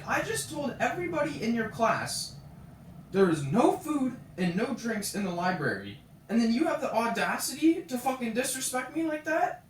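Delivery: indignant retold telling-off; imitated angry scolding. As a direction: mimic an outraged librarian laying down rules. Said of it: "swearing in my face".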